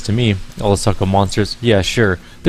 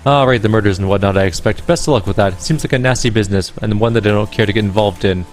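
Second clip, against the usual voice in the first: put-on Irish accent, pitched up and sing-song; bright-toned Irish accent, musical lilt. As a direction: play her as a lyrical Irish gamer woman. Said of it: "that's the voice I chose for her".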